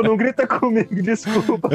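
high, squeaky mock apology; mock timid. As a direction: whimper a fake apology. (desculpa tímida fingida)

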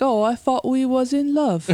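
a lightly put-on, badly faked English accent; mock English accent, only half there. To the podcast friends, quoting Wit in a bad English accent. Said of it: "with my terrible English accent".

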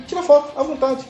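welcoming invitation. Retold or imitated. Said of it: "arrumaram toda a cabine".

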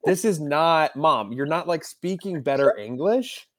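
mildly exasperated telling-off, acted out; retold exasperation. Grown child correcting mom's put-on accent, in mock exasperated protest.

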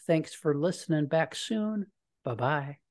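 official radio sign-off; public radio host. Shown as a demonstration. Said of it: "I ended that one with a, uh, the public radio voice".

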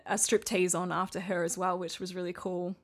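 hoarse, fading voice; tired voice wearing thin; losing voice. Real, not acted. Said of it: "Sorry, I'm losing my voice".

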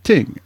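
Jamaican "Ting" with a hard T and no TH. Retold or imitated. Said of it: "they don't say the T H".

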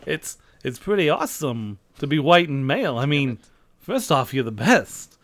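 halting, oddly paused delivery; a hint of Christopher Walken. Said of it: "Christopher Walken impressions".

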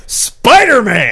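high, slow announcer reveal of Spider-Man; dramatic reveal. Acted. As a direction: announce it like a trailer. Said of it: "big reveal".

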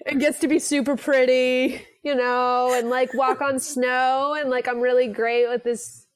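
put-on light Valley Girl uptalk. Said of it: "that Valley Girl voice thing".

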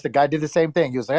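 normal talking voice

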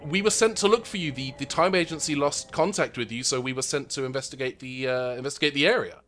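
put-on lightly botched British accent; American attempting British, badly; failed British accent. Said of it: "American trying to do a British accent and failing".

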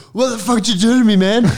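choked-out guy wakes up, high fast mock indignation; imitating dazed outrage. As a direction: blurt it out, confused and furious at once. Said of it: "he's like".

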